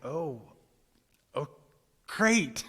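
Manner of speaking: a high, loud, bursting "great"; fumble, then burst out pleased; awkward delight. Retold or imitated. Unsure how to react to the stranger, awkwardly thrilled. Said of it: "I was just kinda like".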